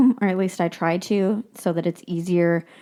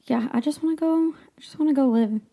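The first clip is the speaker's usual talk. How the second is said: longing whisper; 7 semitones higher than usual. Real, not acted. Dreamy wish to move.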